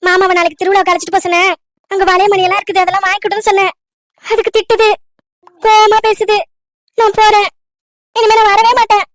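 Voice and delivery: high-pitched, upset wailing complaint; tearful complaint. Acted. Crying girl telling aunt that uncle scolded her, tearful. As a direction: pour out the hurt while crying. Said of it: "எதுக்கு அழுவுற?".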